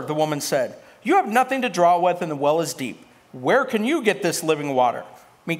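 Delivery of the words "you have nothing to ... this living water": doubting woman's mild sarcasm; sarcastic. Acted. Samaritan woman questions Jesus about drawing living water, sarcastic. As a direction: challenge him with a touch of sarcasm. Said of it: "can't you hear the sarcasm there".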